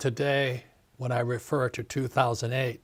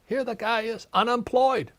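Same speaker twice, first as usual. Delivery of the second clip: high, louder, indignant rant at dad; retold outrage; 8 semitones higher, 4 dB louder than usual. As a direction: relive the outrage at an unemployed father's advice. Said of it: "I said".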